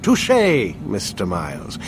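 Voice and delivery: wry concession. Acted. Doctor granting his patient a point, wryly. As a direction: concede the point archly, then let it fall away.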